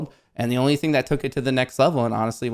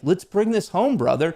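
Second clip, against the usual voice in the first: bro voice; 6 semitones higher than usual. Retold or imitated. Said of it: "Why are you talking like that?".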